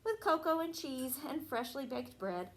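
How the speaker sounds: sing-song storybook reading; reading to children. Acted. Teacher reading a Christmas rhyme to a child. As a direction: read the rhyme to the little ones. Teacher reads picture book aloud.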